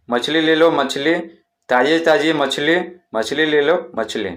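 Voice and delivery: fish seller's call. Shown as a demonstration. Teacher demos how the fish seller calls out, slow hawker cry. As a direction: sell fresh fish to the street. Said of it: "इस तरह से चिल्लाएंगे".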